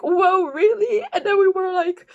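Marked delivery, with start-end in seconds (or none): 0.0-1.0 higher, louder drawn-out whoa; mock amazed. Strangers playing along with the ghost joke, higher and louder. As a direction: play along, wide-eyed.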